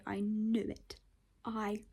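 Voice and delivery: hushed whisper on knew; voicelessly whispered "I knew it"; triumphant but whispered. Real, not acted. Whisper vs outburst.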